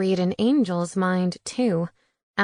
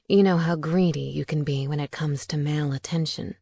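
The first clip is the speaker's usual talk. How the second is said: a hint of a smooth vampire gentleman, lower; lightly lowered, courteous vampire voice; lightly voiced suave vampire; 5 semitones lower than usual. Demetrius teases Tina.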